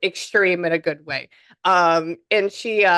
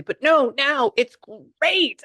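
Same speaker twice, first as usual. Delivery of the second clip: high, loud, drawn-out delight; big excitement; 9 semitones higher, 5 dB louder, much slower than usual. Retold or imitated. Spirit saying the nerves are gone, big excitement. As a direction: stretch it out big and high, relaying someone overjoyed. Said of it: "That's essentially the bigness of this".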